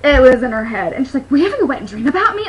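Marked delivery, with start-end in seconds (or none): 1.3-2.5 excited. Retold or imitated. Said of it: "All excited".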